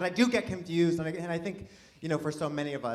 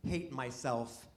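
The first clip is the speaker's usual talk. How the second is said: soft, halting mock-emotional declaration; 6 dB quieter than usual. Comedian confessing to the audience after hearing "self-hating", mock emotional. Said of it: "I'm sorry to get emotional".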